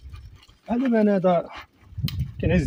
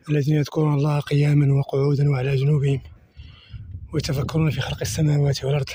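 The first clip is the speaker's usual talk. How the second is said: Quran recitation. Acted. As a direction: recite the verses calmly, drawing out the vowels. Recites Quran verses while walking.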